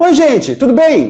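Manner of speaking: very high, bright head register. Explaining head voice versus chest voice: high bright head voice. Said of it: "É você falar um pouco mais lá em cima, mais agudo".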